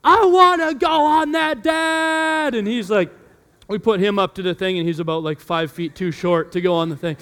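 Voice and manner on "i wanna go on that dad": put-on high, loud begging kid voice; excited little boy. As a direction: plead like an eager small son. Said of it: "He goes".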